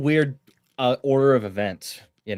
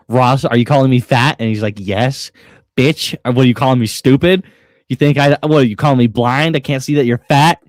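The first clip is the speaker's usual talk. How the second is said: louder, offended questions with rising ends; hammed-up indignant shouting; mock offended outrage; 7 dB louder than usual. Yam snapping back at Ross over being called fat, hammed-up.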